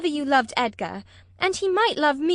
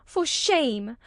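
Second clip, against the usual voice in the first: angry; 4 semitones higher than usual. A narrator's reading. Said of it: "she repeated angrily".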